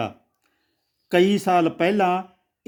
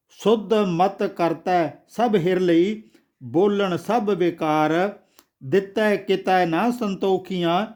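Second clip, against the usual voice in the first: slow, measured verse reading; scripture recitation. A narrator's reading. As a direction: recite the verse line by line, drawing out line endings. (ਹੌਲੀ, ਠਹਿਰਾਅ ਨਾਲ ਗੁਰਬਾਣੀ ਪਾਠ)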